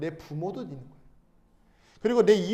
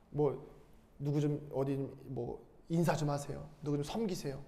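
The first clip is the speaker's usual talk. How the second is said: nagging church request; 6 semitones lower, 8 dB quieter than usual. Retold or imitated. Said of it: "교회에서 봉사할 때 그런 경우".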